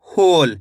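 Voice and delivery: "होल" with a long, falling "हो"; drawn-out "होल", dropping in pitch; careful pronunciation. Shown as a demonstration. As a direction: sound out "होल" slowly and clearly for dictation. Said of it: "शब्द का उच्चारण सुनो किस तरीके से हो रहा है".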